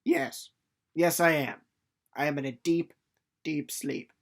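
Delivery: annoyed sleeper answering a checker, dry and sarcastic; sarcastic reply. Retold or imitated. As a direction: sarcastically insist you're asleep. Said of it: "you're just like".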